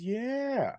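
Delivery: lightly voiced Alex Kane bragging; imitating Alex Kane. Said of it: "Alex says".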